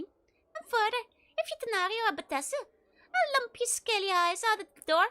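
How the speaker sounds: put-on lightly done Scottish accent, gruff lecturer. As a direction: growl it out in a mock Scottish brogue. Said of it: "like some Scottish person".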